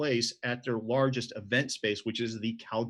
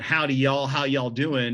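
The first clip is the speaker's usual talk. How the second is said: lightly put-on Southern cowgirl greeting, a bit louder; Southern US accent; 5 dB louder than usual. Cowgirls greeting visitors as he expects, Southern US accent. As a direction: imitate a friendly Southern US hello. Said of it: "growing up in the South".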